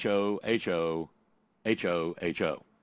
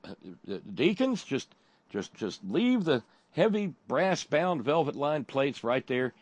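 high voice to deacons; 3 semitones higher than usual. Retold or imitated. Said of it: "I told them".

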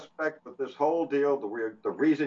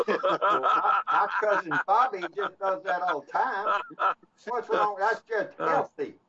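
laughing, higher mock hick voice; mock yokel; 5 semitones higher, slower than usual. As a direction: chime in as the yokel's cousin, giggling. Joins the yokel impression.

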